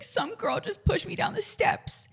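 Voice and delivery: put-on high, slow whiny retelling of a crying girl; mock crying girl. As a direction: imitate a sobbing stranger, hammed up. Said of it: "and she's, like, crying".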